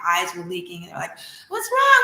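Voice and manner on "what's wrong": high squeaky cry of worry; a panicked falsetto plea, loud; anxious gods. Acted. Gods crying over Ra.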